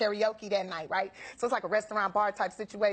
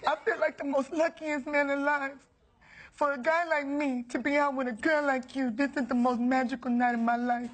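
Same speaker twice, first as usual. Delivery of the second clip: earnest suitor; 2 semitones higher than usual. Retold or imitated. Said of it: "he's like".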